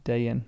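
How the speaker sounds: Dayan as DAY-an, settled and even; two-syllable Dayan, first syllable like "day"; long A. Shown as a demonstration. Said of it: "Accents just indicate a long A".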